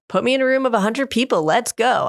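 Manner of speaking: imitating an eager daughter; excited daughter. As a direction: rattle it off like a kid who wants chaos. Daughter voiced, eager for crowds.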